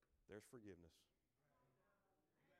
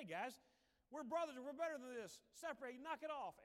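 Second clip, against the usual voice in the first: stern call to stop; 5 semitones higher, 5 dB louder than usual. Retold or imitated. Moses breaking up a fight.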